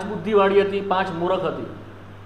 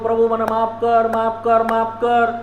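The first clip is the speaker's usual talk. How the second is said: mock weeping sinner. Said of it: "હું રડ્યા કરું".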